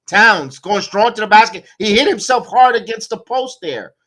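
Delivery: vent, building heat, pushing each line; angry rant. Real, not acted. Fan commentator ranting about the coach's rotation, loud and indignant.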